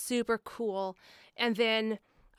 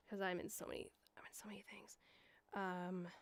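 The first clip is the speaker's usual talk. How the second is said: hushed aside to herself; whispering while scrolling Discord; 2 semitones lower, 17 dB quieter than usual. Real, not acted. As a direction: breathe it out as a private aside.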